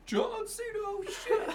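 high yelled John Cena call; excited shout. Retold or imitated. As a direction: scream it like a wrestling fan. Mimicking John Cena entrance yell.

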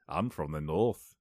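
slow, low "I'm from the North" with a rising end; northern English accent. Retold or imitated. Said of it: "that's what they all sound like".

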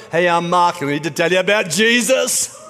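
lightly hammed-up eager evangelist; put-on gung-ho introduction; brash extrovert.

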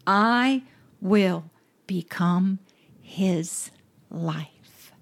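slow, dropping to a hushed whisper on the last words; fading to a whisper. Acted. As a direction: let each word sink into a whisper.

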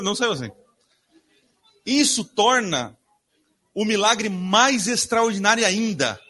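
ordinary delivery

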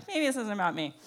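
subdued self-reassurance. Acted. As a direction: drop it down, as if to yourself. Repeats the self-reassurance, lower.

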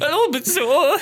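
high, laughing mock French accent; a silly laughing French accent. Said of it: "French accent comes out".

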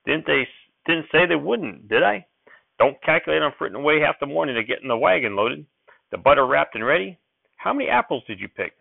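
put-on high, eager old-timer; old prospector. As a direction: rattle it off like an excited grandpa.

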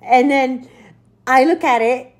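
ordinary delivery

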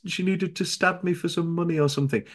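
high, stammering fake victim; hammed-up pleading, halting and high; mock desperate lie. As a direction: stumble through a made-up sob story, pitched high. Acting out a desperate invented lie.

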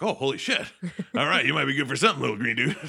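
loud, high, mock-amazed exclamation; excited surprise. Luke learning the green guy is useful, excited. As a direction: burst out, pleasantly amazed and amused.

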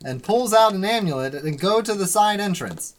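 put-on old-time serial announcer recap; Legend of Korra announcer. Game master recaps the adventure to players, announcer voice. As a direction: punch out each phrase like an episode recap. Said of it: "I'll be the announcer from The Legend of Korra".

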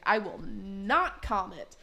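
slow, emphatic mock indignation; drawn-out put-on defiance; Cynthia's refusal. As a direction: refuse slowly, leaning hard on "not". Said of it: "And Cynthia's like".

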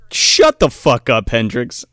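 slowly and loudly bark the order to shut up; mock snapping. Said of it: "And he's like".

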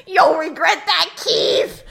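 put-on a light British accent threat; a hint of British accent, spat at Keith. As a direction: sneer it in a faint British accent. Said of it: "he drops a British accent".

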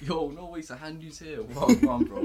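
high, loud hype shout; excited greeting. Real, not acted. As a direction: hype up the stream. Greeting a viewer on stream.

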